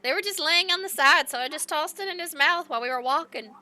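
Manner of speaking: lightly voiced sweet old lady; innocent grandma voice.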